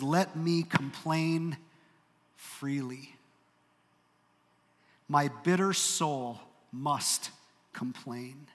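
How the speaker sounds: slow, weighty reading of Job's lament; slow scripture reading. Acted. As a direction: let each word of the complaint sink in. Reads scripture slowly.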